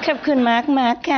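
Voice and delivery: lilting, sing-song thank-you with a laugh; sweet Thai thanks. Shown as a demonstration. Master imitating sweet Thai girls, laughing. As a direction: coo it like a sweet Thai girl. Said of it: "they talk like singing".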